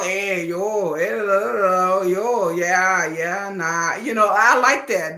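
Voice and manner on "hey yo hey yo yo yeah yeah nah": sing-song mock Busan intonation; Busan dialect. Showing viewers the way Busan people talk, imitated Busan accent. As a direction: loosely imitate Busan speech, drawing out the syllables. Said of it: "the way they talk".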